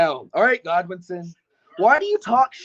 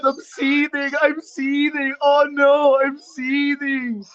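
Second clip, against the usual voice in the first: raised, put-on outrage; mock seething; 4 semitones higher, slower than usual. Taunting a rival who said compose yourself, mock seething. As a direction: feign being furious, pitch held high. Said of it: "I'm so mad. I'm seething".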